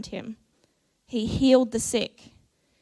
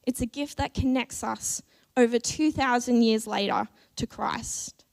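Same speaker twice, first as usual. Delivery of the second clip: hushed whisper of awe. Acted. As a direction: drop to a whisper as if sharing something precious. Intimate whispered aside in sermon.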